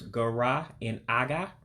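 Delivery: gara and aga kept apart; gara, then aga, each whole; two separate words. Shown as a demonstration. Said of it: "the two last words".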